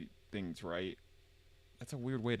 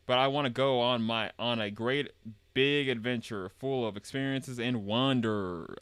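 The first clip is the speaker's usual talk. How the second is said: lightly Southern, drawn out at the end; 2 semitones higher, 6 dB louder, slower than usual. Acted. Game character dreaming of a big adventure, light Southern voice. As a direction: read it with a hint of a Southern accent. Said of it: "I'm using Southern voice this time".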